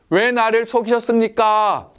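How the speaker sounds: a mild retold wail of betrayal; crying out. Jacob cries out to his uncle Laban, mildly anguished. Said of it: "절규하면서".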